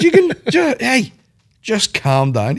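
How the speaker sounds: high, laughing plea to calm down; laughing protest. Retold or imitated. To Aaron eating fast, a laughing high-pitched plea. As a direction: giggle through the telling-off. Telling friend to slow down.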